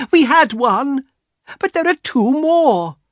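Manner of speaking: high, eager exclaiming; excited cry. A narrator's reading. Wife explains remaining wishes to husband, excited cry. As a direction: build the hope, pitch soaring. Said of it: "she cried".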